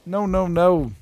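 high, loud protesting no's. Retold or imitated. Gamer retelling protest at the story, high loud no. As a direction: refuse it, pleading. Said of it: "I was like".

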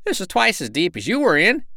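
piping sandpiper brag; bragging cry. A narrator's reading. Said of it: "he cried".

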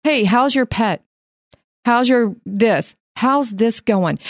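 slow, unhurried check-in; very calm voice. Retold or imitated. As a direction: soothe an agitated colleague, taking it slowly. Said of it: "in a very calm voice".

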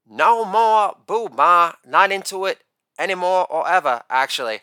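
lightly mocked Southern gay accent; hint of a campy Southern accent. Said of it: "have, like, an accent and say".

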